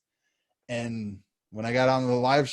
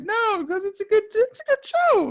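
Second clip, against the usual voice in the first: much higher, pleading voice; squeaky insistence; 5 dB louder than usual. Retold or imitated. Insisting to the co-host the movie is good, in a squeaky pleading voice. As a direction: squeak out the defence.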